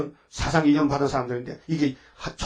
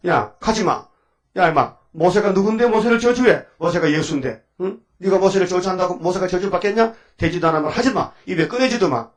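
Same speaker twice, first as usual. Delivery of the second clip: scolding rebuke; 3 semitones higher than usual. Acted. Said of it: "이렇게 야단을 쳤다고".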